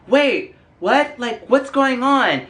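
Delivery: high-pitched mock confusion; bewildered Sarah. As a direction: imitate a clueless woman caught off guard, high. Acted confused Sarah reacting.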